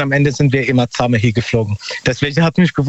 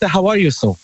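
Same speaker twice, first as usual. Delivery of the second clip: whispered quote; 4 semitones higher than usual. Retold or imitated. Retelling a friendly shop clerk.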